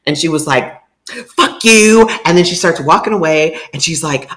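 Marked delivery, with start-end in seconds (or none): 1.4-2.1 high, loud mock curse; mock snarl. Girlfriend to the speaker while backing off, a high mock curse. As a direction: fling it back, pitched up.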